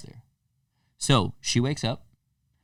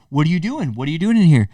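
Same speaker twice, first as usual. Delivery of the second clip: confronting; 6 semitones higher, 5 dB louder, faster than usual. Retold or imitated. Confronting the cheating couple.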